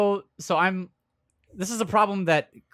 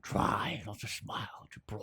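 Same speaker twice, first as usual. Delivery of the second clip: stuffed-nose voice; 7 semitones lower, 12 dB quieter than usual. Acted. Taunting the others during a movie watch, in a congested put-on voice. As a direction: mumble it as if the nose needs clearing. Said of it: "You wanna clear your nose?".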